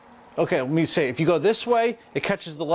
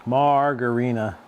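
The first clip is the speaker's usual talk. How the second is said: slow drawn-out; 3 semitones lower, slower than usual. Shown as a demonstration. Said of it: "It sounds like a, like a, an alien woman".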